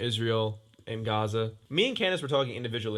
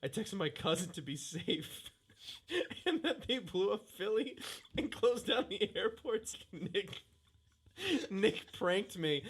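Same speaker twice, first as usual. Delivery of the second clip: quiet, amused admission; hushed; 5 semitones higher, 8 dB quieter, slower than usual. Real, not acted. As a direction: say it quietly, half to yourself. Quietly recounting being pranked.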